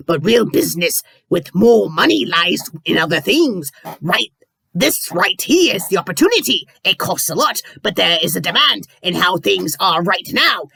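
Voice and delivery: a hint of a pirate captain; lightly voiced greedy boss. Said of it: "I'll try to do the pirate voice".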